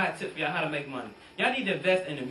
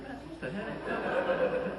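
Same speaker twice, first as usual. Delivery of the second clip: slow, drawn-out, higher disbelief; exasperated; 6 semitones higher, 5 dB quieter, much slower than usual. Retold or imitated. Comic finding his for-sale sign rewritten, slow baffled groan. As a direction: stretch it out, baffled. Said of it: "I'm like".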